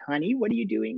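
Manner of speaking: a hint of a sultry star calling a friend; Dee Dee's voice. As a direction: friend calling with an invitation, lightly imitated. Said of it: "with that voice of hers".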